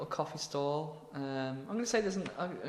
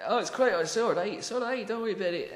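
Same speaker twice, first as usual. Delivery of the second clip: put-on higher-pitched comic Scottish accent; breezy mock-Scottish reassurance; 7 semitones higher, 3 dB louder than usual. Alfred reassuring the embarrassed woman, Scottish. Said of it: "I'm gonna make him Scottish".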